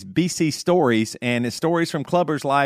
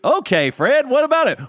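character voice; 11 semitones higher, 3 dB louder than usual. Pretend. Voicing Toby in a skit.

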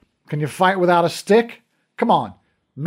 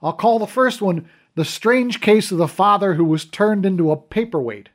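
loud and higher, cocky and gleeful; brash mockery; 5 semitones higher, 4 dB louder than usual. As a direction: show off loudly at the bedside. Brash cop mocking the dream.

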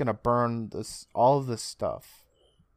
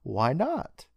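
light, eager retelling with pitch swooping up at the end; mock excitement; 3 semitones higher than usual. Host retelling the villain agreeing to try the ring, mildly excited. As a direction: imitate giddy eagerness, lilting upward. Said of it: "he gets all excited".

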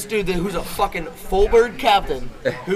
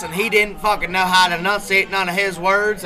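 imitating mumbler; 4 dB louder than usual. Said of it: "He would talk like this".

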